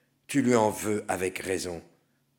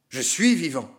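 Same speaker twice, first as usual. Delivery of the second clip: defiant; 7 semitones higher, 9 dB louder than usual. Acted. Sinner's defiant claim.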